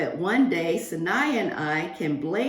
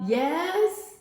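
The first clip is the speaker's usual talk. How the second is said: whispered, high yes; playful hush; whispered question; 8 semitones higher than usual. Real, not acted. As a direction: lean in and whisper it. Teacher coaxes class.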